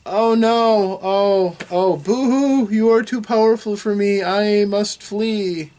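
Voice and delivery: high, loud, hammed-up fake wail of defeat; mock despairing djinn. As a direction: overact the beaten genie, dragging the boo-hoo out slowly. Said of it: "And the djinn goes".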